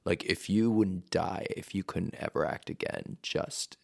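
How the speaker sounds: a hint of a stern teacher, slowing down; half-whispered, grave teacher's advice; stern acting teacher. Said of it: "my acting teacher forever ago just be like".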